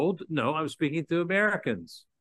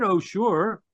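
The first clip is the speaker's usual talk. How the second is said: "Oh, sure" lifted higher and louder, all innocence; innocent "Oh, sure"; 7 semitones higher, 5 dB louder than usual. Retold or imitated. Preacher mimicking someone who denies sounding sarcastic, innocently. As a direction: protest that you only said "Oh, sure". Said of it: "how did you say it?".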